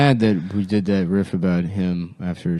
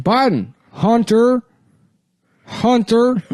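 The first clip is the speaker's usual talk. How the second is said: Biden impression; 11 semitones higher, slower than usual.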